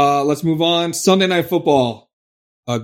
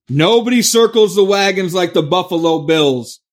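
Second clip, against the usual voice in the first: louder, proud boomer declaration; boomer proclamation; 3 semitones higher, 5 dB louder than usual. Shown as a demonstration. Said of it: "That's my boomer voice".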